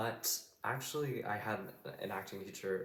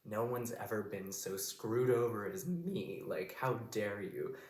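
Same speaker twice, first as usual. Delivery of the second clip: slow, incredulous paraphrase of a wronged queen; how dare you, drawn out; acted affront; indignant; 3 dB louder, slower than usual. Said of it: "is this, like".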